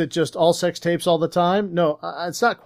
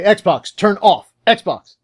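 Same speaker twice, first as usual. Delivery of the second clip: commanding the Xbox; 3 semitones higher, 5 dB louder, much slower than usual. Acted. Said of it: "I was gonna say".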